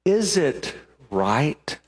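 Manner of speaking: very slow, weighing each word; slow searching question. Pretend. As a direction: let the question hang. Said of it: "It could have been".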